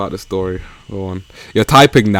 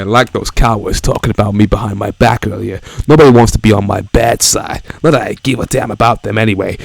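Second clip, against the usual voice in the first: Shadow voice. Acted. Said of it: "my Shadow voice".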